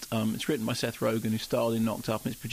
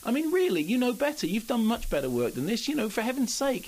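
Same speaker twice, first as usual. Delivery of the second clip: exasperated; 9 semitones higher than usual. Real, not acted. Scolding Clive Owen directly.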